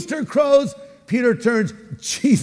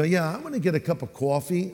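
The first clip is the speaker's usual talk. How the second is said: put-on light New York accent on coffee; a touch of New York in the vowels; 5 dB quieter than usual. Someone ordering coffee, lightly imitated New York accent. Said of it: "New York".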